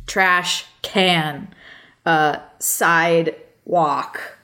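each part spaced out, deadpan; slow literal sounding-out. Shown as a demonstration. Showing how literal American words are, slowly spaced. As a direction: break the compound words into separate pieces.

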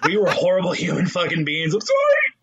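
laughing fake sob of regret; mock tearful apology. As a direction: ham up a weepy apology. Apologizing to old teachers, mock.

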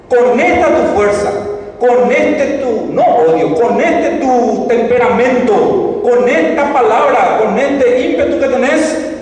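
más alto y fuerte, lento y enfático; empújalo con ímpetu, palabra por palabra; ángel enardecido. Retold or imitated. El ángel anima a Gedeón. (el ángel levanta el ánimo de Gedeón con fuerza)

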